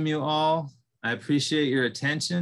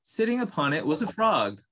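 gentle storyteller reading a tale aloud; calm read-aloud narration with lightly voiced animals; story narration. A narrator's reading. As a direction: tell it like a fireside story to a group.

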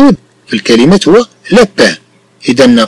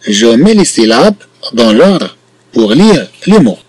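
slow dictation; 3 semitones lower, much slower than usual. Shown as a demonstration. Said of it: "teacher reads instruction slowly".

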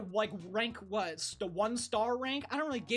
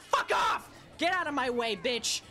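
furious shout; 2 semitones higher than usual. Real, not acted. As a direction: blast it at the rival racer. Racer blocking his way.

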